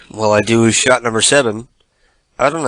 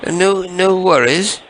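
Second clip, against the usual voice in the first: high, sugary put-on caller voice; sweet fake-friendly caller; prank caller voice; 6 semitones higher than usual.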